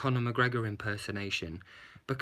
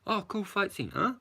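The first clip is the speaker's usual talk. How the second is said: underwhelmed; 7 semitones higher than usual. Retold or imitated. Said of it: "The whole movie just left me like".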